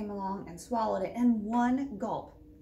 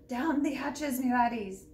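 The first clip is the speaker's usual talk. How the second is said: pirate yell; 2 semitones higher, 3 dB louder than usual. Acted. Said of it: "pounded his fist ... and yelled".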